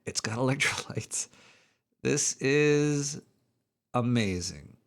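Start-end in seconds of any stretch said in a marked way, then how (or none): 0.0-1.3 breathy whisper of the slogan. Pretend. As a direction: whisper it like a secret. Quoting drink slogan.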